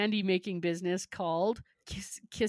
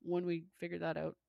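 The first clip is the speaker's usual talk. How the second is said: lightly voiced nonchalant tech mogul; a hint of casual, offhand bragging; Elon Musk; 6 dB quieter, faster than usual. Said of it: "that's how he talks".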